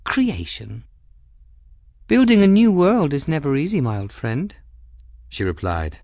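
cool, arch noblewoman with a sly edge; Cavendish voice. Acted. Cavendish needling the captain, arch and cool. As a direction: speak as the poised Madame Cavendish, lightly mocking.

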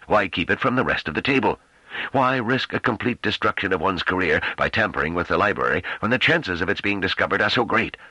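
lightly voiced indignant elder; scoff, then press the questions; indignant old leader. A narrator's reading. First Speaker rebukes.

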